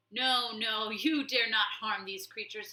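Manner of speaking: loud pleading cry; abbot cries out. Acted. Old abbot crying out to the warlord, loud plea. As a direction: beg him to stop, loudly. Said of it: "he cried".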